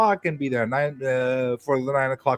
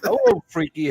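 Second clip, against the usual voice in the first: squeaky hello; 13 semitones higher than usual. Acted. Playful greetings round the table.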